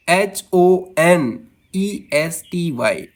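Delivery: slow letter-by-letter spelling, एच ओ एन ई एस टी वाई; spelled out slowly. Shown as a demonstration. Teacher spelling a word for students, slow and separated. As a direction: give each letter its own beat.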